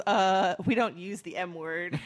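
slow, loud deadpan impersonation; mock admonishment, each word slowed down; Mark Ruffalo. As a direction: lightly imitate a slow, firm correction. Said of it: "Mark Ruffalo goes".

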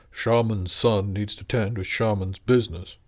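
slow, lightly voiced imitation of a stern father; a hint of the boy's father, slowed down; imitating his father. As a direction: mimic the shaman's measured tone, slowly. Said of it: "lowered his voice and gave a fair approximation of Otto's father's intonation".

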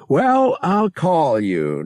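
loud, high, sing-out farewell; hearty goodbye. A narrator's reading. Dale half out the door to Han, hearty goodbye. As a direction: call it out high on the way out.

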